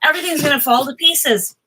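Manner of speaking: high, quick hammed-up alarm; mock panic. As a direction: act out your own spiral of dread.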